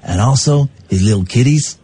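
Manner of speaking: mock-menacing mob henchman; improvised gangster. Henchman threatening a policeman's family, mock menace. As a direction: make a hammy mobster's veiled threat.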